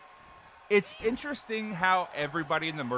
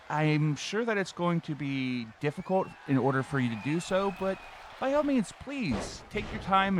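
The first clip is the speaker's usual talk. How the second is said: customer service voice. Acted. Bob continues support call.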